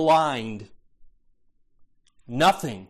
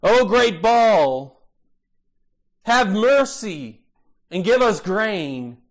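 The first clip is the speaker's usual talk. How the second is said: slow, drawn-out plea to Baal, a little louder; pleading cry; 3 dB louder, slower than usual. Retold or imitated. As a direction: stretch every word like a desperate prayer. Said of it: "when they cry out".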